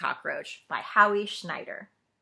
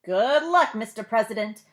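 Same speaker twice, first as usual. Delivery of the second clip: louder call; calling after; 2 semitones higher, 8 dB louder than usual. Acted. Leaders call after the departing president, louder. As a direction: call it after someone rushing out. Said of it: "the leaders called after him".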